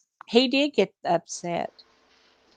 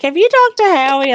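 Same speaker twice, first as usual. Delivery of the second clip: high urgent; 10 semitones higher, 6 dB louder than usual. Retold or imitated. Friend's urgent question.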